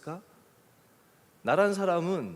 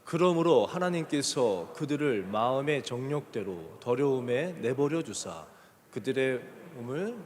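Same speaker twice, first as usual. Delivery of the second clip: slow, measured verse reading; scripture reading; 3 semitones lower, slower than usual. Acted. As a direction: lead a congregation reading aloud together. Leads congregation in scripture reading. (천천히 또박또박 성경 봉독)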